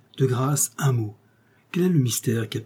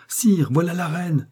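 calling out; 6 semitones higher than usual. Acted. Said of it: "criait au même instant une voix".

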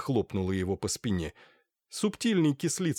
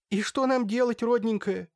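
high, whining plea; pleading wail; 11 semitones higher than usual. A narrator's reading. Merchant's wife begs the holy fool, high whining plea. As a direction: beg her, voice pitched up high.

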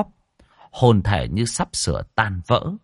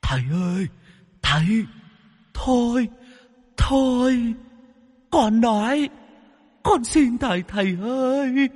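very high, crying ghostly begging; whimpering plea. Acted. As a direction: beg the master through sobs. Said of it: "Nó mếu máo".

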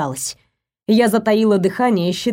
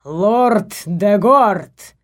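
slow, drawn-out ceremonial call; royal summons; much slower than usual. Acted. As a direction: stretch the name out like a herald. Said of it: "призвал Стального король".

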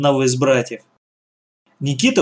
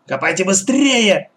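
higher-pitched urgent order; agitated growl; 6 semitones higher than usual. A narrator's reading. Gang boss nears the treasure, agitated growling. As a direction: urge them on, mildly agitated. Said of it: "срывающимся от волнения голосом прорычала Черногорская".

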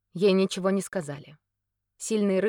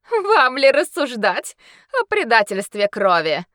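laughing scorn; 6 semitones higher, 10 dB louder than usual. Acted. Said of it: "расхохоталась она".

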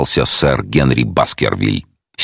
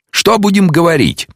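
detective, a touch higher and brighter. Acted. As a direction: voice the calm detective, lifted a little. Detective asks.

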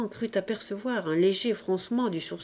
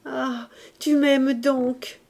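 slow, higher, tender exclamation; moved old man; 6 semitones higher, much slower than usual. A narrator's reading. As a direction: draw it out with joyful relief. Old man moved by grandson's love.

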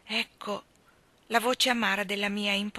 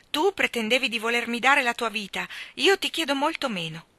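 fairy insisting; 3 semitones higher, 5 dB louder than usual. Acted. Fairy pressing her demand.

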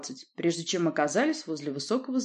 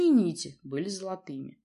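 ordinary delivery

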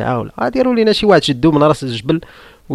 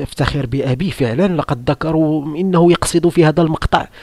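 proud son; 3 semitones higher than usual. Retold or imitated. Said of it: "وقال".

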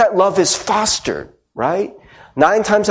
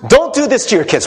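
higher, emphatic plea from the pulpit; bold emphasis; 5 semitones higher, faster than usual. Acted. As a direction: read it out like a bold-faced warning. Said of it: "I wrote very boldly on here, boldface".

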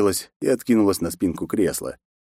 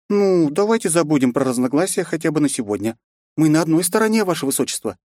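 smiling, friendly appeal; with a smile; 8 semitones higher than usual. A narrator's reading. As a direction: smile through the offer. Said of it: "с улыбкой ответила Роузи". (с улыбкой)

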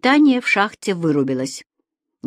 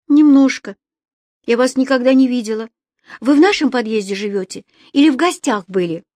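put-on a lightly raised girl's voice, calmer now; a shy girl asking the old man; girl in the lift calming down, asking questions; voiced young girl; 4 semitones higher, 4 dB louder than usual.

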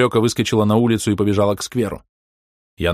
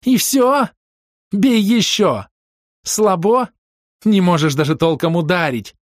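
high, loud defiant taunts; high hysterical girl; frantic goading; 10 semitones higher, 5 dB louder than usual. A narrator's reading. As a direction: push him to hit again. Рёка goading after slap.

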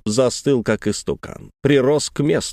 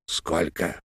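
notary voice; 7 semitones lower, 9 dB quieter than usual. A narrator's reading. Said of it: "спросил нотариус".

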